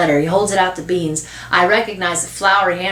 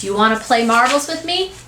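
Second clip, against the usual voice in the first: higher voice, rising at the end; little boy asking; 5 semitones higher than usual. Acted. Little boy inviting newcomer to play, hopeful. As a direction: ask like a hopeful small child.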